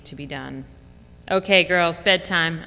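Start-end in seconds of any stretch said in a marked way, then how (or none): 1.3-2.6 announcing. Retold or imitated. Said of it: "I announced".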